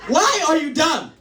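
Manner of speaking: high-pitched mock Nigerian scolding; hammed-up exasperated teacher with a Nigerian accent. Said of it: "like, Nigerian or some shit".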